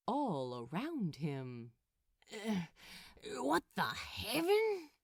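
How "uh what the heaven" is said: startled, pitched up; jolted awake and confused. A narrator's reading. Crowley waking to strange light, startled. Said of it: "he asked aloud".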